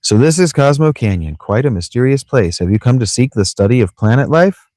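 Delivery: lilting game-character voice; lightly voiced local greeting a visitor; curious villager. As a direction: ask with a rising, lilting tune.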